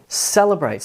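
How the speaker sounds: celebrate, light middle, big BRATE; primary and secondary stress. Shown as a demonstration. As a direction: celebrate with some weight on CEL, most on BRATE. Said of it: "some emphasis on the first syllable".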